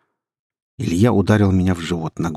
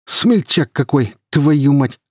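slow, raised-pitch bark; loud, scornful thug voice; 7 semitones higher, 4 dB louder, slower than usual. A narrator's reading. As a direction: jeer angrily, drawing the words out. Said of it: "гаркнул Илья".

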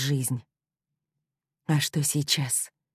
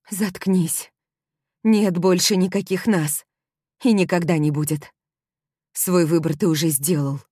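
angry rejection; 3 semitones higher, 4 dB louder than usual. Acted. Heroine cuts him off coldly.

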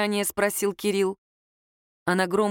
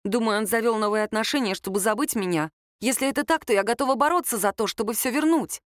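lightly voiced Lera; 3 semitones higher than usual. Girl explains she will fight to win her ex back, mildly earnest. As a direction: plead your case with mild intensity. Lera's speech in dialogue.

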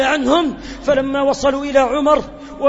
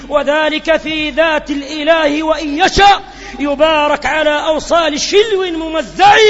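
fervent pulpit delivery; impassioned preaching; 4 dB louder than usual. Acted. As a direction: proclaim it to the congregation. Impassioned sermon climax, poem recited.

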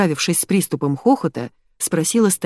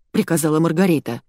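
ordinary delivery, nothing marked

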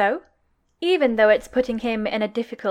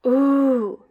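a mildly delighted ooh; very pleased; 3 dB louder than usual. Acted. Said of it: "Very, very pleased".

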